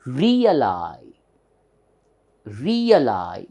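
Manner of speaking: "Realize" drawn out, moderate weight on the last syllable; teacher modelling "Realize" slowly and clearly. Shown as a demonstration. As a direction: stretch the end of "Realize" with secondary stress. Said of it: "there is a lower stress".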